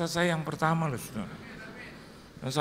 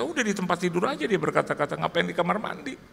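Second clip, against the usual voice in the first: stern wife; 3 semitones higher than usual. Retold or imitated. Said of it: "Saya bilang".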